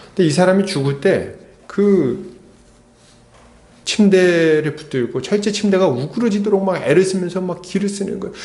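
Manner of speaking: ordinary talk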